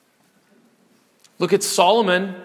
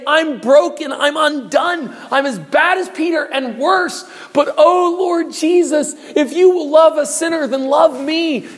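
higher, slowed pleading prayer; broken sinner's plea; 6 semitones higher than usual. Acted. A sinner pleading with Jesus for love, earnest. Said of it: "If you will just say".

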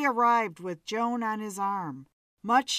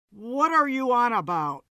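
irritated; 5 dB louder than usual. Acted. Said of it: "slammed his hand on the table".

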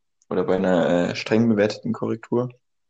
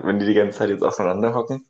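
laughing. Real, not acted. Joke about couples divorcing.

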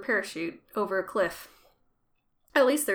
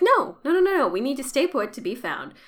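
protesting loudly; 4 semitones higher, 5 dB louder than usual. Retold or imitated. Charlotte protesting Locke's order.

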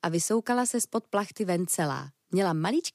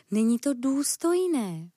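reproachful; 4 semitones higher than usual. Acted. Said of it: "káravě".

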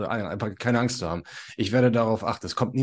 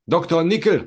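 high, loud call across the yard; 9 semitones higher, 7 dB louder than usual. Acted. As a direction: shout the name up high and loud. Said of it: "ruft er". (laut und hoch rufen)

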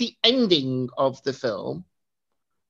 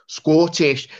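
bad Scottish accent; 4 dB louder than usual. Shown as a demonstration. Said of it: "that's my Scottish accent. It's not very good".

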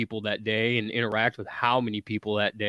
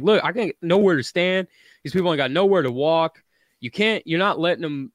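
higher, emphatic retold complaint; retold protest; 3 semitones higher than usual. Man retelling his argument with a cop, protesting. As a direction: plead your case, a notch higher.

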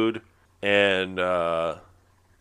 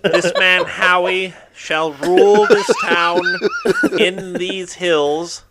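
slow, higher town crier proclaiming; grand rich voice; 6 semitones higher, 4 dB louder, slower than usual. Pretend. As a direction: announce it like a royal herald.

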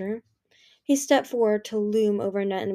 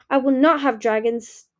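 snarled; 4 semitones higher, 6 dB louder than usual. A narrator's reading. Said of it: "Darkstalker snarled".

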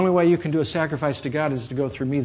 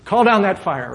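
higher, louder eager cry; eager disciples; 6 semitones higher, 7 dB louder than usual. Acted. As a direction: egg him on, hungry for a fight. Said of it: "The disciples might be sitting there saying".

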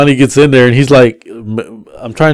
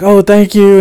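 high, louder thank-you; mock gushing thanks; 9 semitones higher, 5 dB louder than usual. Riders thank the driver at drop-off, mock gushing. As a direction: imitate grateful riders, pitched way up.

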